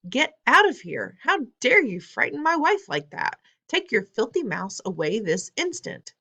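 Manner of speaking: father throws her out; furious shouting. Acted.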